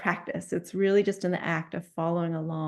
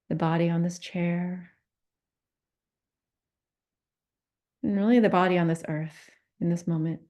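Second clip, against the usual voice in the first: calm meditation guidance with long pauses; unhurried meditation teacher, pausing often; guided meditation. Real, not acted. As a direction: lead a compassion practice, leaving silence between phrases. Leads a guided compassion meditation.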